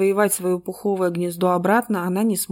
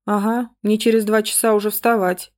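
yawning; 2 semitones higher than usual. Acted. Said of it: "зевнула Света".

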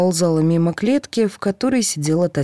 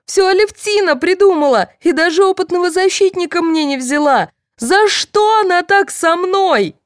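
hysterical screaming; 13 semitones higher, 4 dB louder than usual. A narrator's reading. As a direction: scream your innocence through the bars. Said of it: "трясти и кричать".

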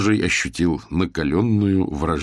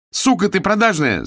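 much higher, loud insult; furious yell; 14 semitones higher, 4 dB louder than usual. Acted. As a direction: scream the insult and storm off. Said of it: "заорала на неё Саласкина".

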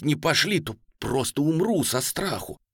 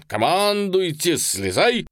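higher, loud, drawn-out order; loud command; 6 semitones higher, 5 dB louder, slower than usual. A narrator's reading. General ordering the regiment to dismount. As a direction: call the troops off their horses.

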